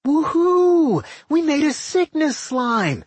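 very high, loud whoop of triumph; cheering. A narrator's reading. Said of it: "Doc cheered".

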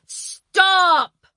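high, loud sudden stop; shouted. Acted. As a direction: yell stop at a running child. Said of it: "Napoleon shouted".

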